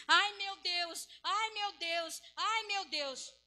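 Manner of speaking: high, slow, repeated wail; hammed-up pleading moan, dragged out; mock lamenting believer. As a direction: imitate a believer wallowing in woe. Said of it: "tem um monte de crente assim".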